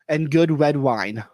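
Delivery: slow, careful repeat of a misheard phrase; slow clarification. Real, not acted. Co-host missed a word of the quote, slow clarification. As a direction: repeat it slowly and clearly.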